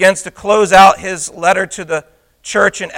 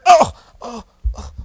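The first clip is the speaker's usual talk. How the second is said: mock groans; 6 semitones higher than usual. Mimics someone lying there being pummeled.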